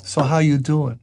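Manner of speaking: Bronx greeting again, a touch of attitude on "how"; Bronx accent. Shown as a demonstration. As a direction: say it like they say good morning in the Bronx. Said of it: "Look at me".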